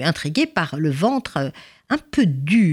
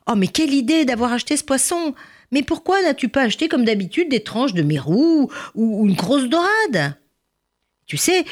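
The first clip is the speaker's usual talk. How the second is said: dismayed exclaiming; 7 semitones higher than usual. Acted. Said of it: "Elle s'écria".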